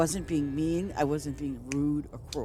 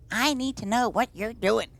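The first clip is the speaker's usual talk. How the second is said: mocking demand; 7 semitones higher than usual. Mimicking Pat again.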